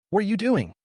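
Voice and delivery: shouting. Acted. Rushing to stop the cordon.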